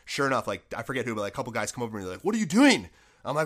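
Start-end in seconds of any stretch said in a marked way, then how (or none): 2.2-2.9 higher, louder incredulous question; retold call-out. Teammates asking why he's not on ice, loud and high.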